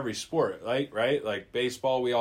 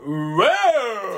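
mock startled whoa, higher and louder; 8 semitones higher, 7 dB louder than usual. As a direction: recoil with a loud high whoa. Joins in mock startled reaction.

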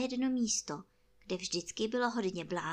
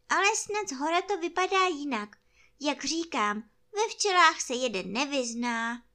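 higher, lively bear voice; earnest toy bear; 5 semitones higher, 6 dB louder than usual. Acted. Bear explains bees from up high, higher earnest voice. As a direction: play a pondering bear, pitched up.

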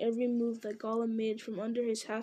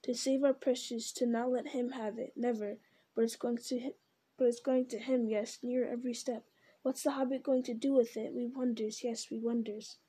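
lightly voiced hissing creature arguing with itself; creepy split-self Gollum muttering. Gollum and Smeagol argue.

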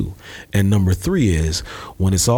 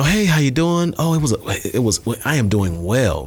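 professional voice; 5 semitones higher than usual. Retold or imitated. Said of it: "that's how you're supposed to say it".

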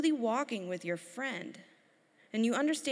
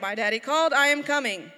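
put-on louder proud child voice; a small son running to his dad; eager little boy; 3 semitones higher, 8 dB louder than usual. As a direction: announce it like a proud obedient toddler. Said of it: "He was like".

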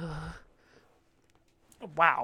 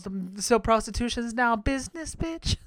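sassy RuPaul jab; 3 semitones higher than usual. Retold or imitated. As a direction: tease her with a raised-brow jab. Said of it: "RuPaul goes".

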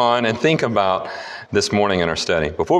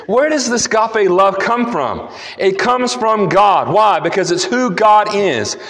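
raised, insistent sermon voice; emphatic preaching; 6 semitones higher than usual. Real, not acted. Preacher telling the congregation love comes from God, emphatic preaching. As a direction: preach it with conviction, pitched up high.

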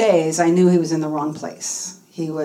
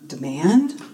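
questioning, with a rising end; hesitant, puzzled query; doubtful echo; 2 semitones lower than usual. Retold or imitated. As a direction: repeat it back as an unsure question. Meek echo of coach's command.

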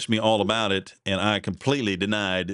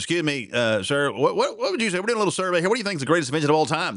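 mock eager street interviewer, pitched up; 6 semitones higher, faster than usual. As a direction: play the chipper survey guy. Interviewer voiced in retold joke.

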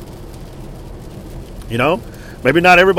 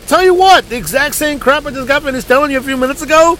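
much higher, disbelieving complaint; incredulous exasperation; 11 semitones higher than usual. Retold or imitated. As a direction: drag it out, stunned at the nonsense. Mocking exasperation at creditors.

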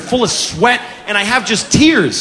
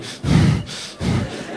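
wordless breathy huffs; toddler's huffing; 7 dB quieter than usual. Acted. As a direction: huff quietly like a brooding child. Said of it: "she's literally going".

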